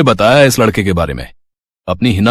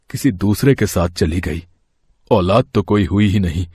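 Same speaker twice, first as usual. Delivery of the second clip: remorseful plea; 3 semitones lower, 4 dB quieter than usual. Acted. Old man begs Champa's forgiveness, soft and remorseful. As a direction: beg forgiveness, lightly voiced. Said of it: "माफी मांगते हुए कहा".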